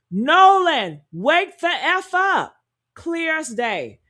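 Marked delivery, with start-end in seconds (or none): 0.1-2.6 raised, drawn-out mock yell; imitated yell. Someone yelling in the background of a call, imitated yell. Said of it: "you can hear somebody yell".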